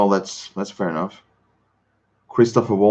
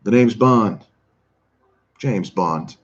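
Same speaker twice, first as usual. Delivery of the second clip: a hint of a sleepy Bond, just woken up; barely shifted Bond line, drowsy and falling; Pierce Brosnan impression; slower than usual. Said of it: "practicing only that one line".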